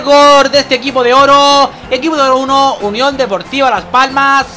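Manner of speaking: brisk football commentator voice; live play-by-play. Acted. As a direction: call the match as it happens. (narración de partido en directo)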